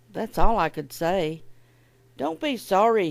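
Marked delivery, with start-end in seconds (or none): 2.2-3.1 louder, higher, with a smile; acted friendly patrolman; smiling reassurance. A narrator's reading. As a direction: reassure them cheerfully and out loud. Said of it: "he smiled".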